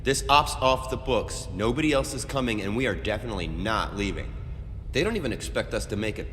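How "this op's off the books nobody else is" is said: heated argument. Acted. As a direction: argue hotly with a squadmate. Squad members quarrel about retreating.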